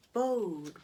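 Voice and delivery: hollow echo calling his name; a ghostly echo says the name; eerie echo. Acted. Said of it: "we see an echo down the well".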